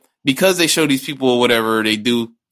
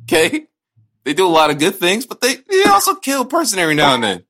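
raised, heated rant; 4 semitones higher, 3 dB louder than usual. Real, not acted. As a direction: argue it hard and high. Heated comic-book rant.

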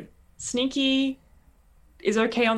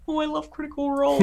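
gushing fan; 9 semitones higher, faster than usual. Retold or imitated. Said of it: "this is just my inner".

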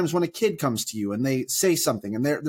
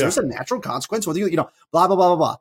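lecturing parent; 3 semitones higher, faster than usual. Retold or imitated. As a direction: jump in and set him straight. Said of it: "I wanna be like".

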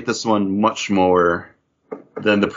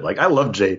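hiccuping. Real, not acted. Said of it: "Excuse me, I'm hiccuping".

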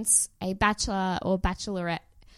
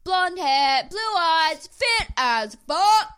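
high, loud mock bellow; mimicked shouting, pitched way up; imitated yelling; 8 semitones higher, 6 dB louder, much slower than usual. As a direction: yell it out like a lout, drawn out at the end. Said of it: "he's just yelling".

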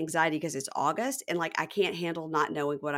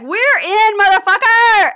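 high-pitched, full-volume victory scream; retold triumphant yell; 16 dB louder, slower than usual. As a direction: scream the good news like an elated friend. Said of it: "He was like".

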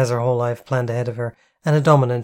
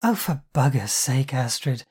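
heavy sigh. Acted. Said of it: "Jen sighed heavily".

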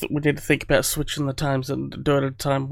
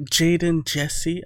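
Jaden, Jesse said higher and trailing soft; a light take on the English host's accent; imitating his accent; 3 semitones higher, 3 dB quieter, much slower than usual. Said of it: "you say, uh".

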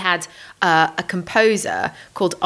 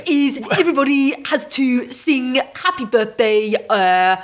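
higher, slow blustering Boris voice; Boris impression; 6 semitones higher than usual. Host does Boris announcing the Latin birthday song. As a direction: bluster it like the Prime Minister. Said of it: "that is quite a good Boris you do".

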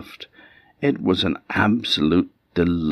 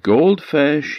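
loud call; 10 semitones higher, 4 dB louder than usual. Acted. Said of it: "he called in a loud voice".

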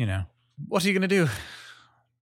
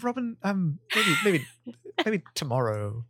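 lightly affected, overly formal brush-off; a hint of a prim, proper tone; put-on polite voice; 4 semitones higher than usual. Putting Robin off in a lightly prim voice. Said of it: "why are you talking like that?".

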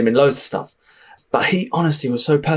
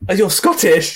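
retold surprise; 7 semitones higher than usual. Retelling his surprise on the phone.

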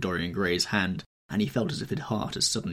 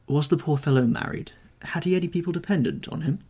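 bored; 9 semitones higher, 4 dB louder than usual. Acted. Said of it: "asked Dorian, looking bored".

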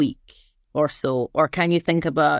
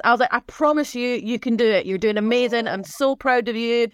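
encouraging pep talk; 4 semitones higher than usual. Retold or imitated. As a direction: coax a flagging runner along, lightly acted. Retold cheering on a struggling runner.

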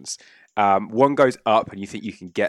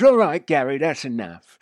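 impatient Nobby; 3 semitones higher than usual. Acted. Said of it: "Nobby goes".

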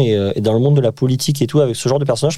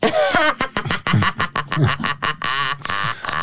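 psychopath laugh; 4 semitones higher, 5 dB quieter than usual. Pretend. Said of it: "Venez, on rit tous comme ça".

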